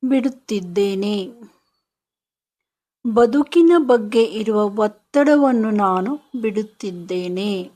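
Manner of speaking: deliberate affirmation, each phrase opening firmly and settling at the end; slow affirmation. Shown as a demonstration. Guide giving listeners words to release money fear, slow affirmation. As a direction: model a mantra for them to repeat, with emphasis. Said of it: "ಈಗ ಮನಸ್ಸಿನಲ್ಲಿ ನಿಧಾನವಾಗಿ ಹೇಳ್ಕೊಳ್ಳಿ".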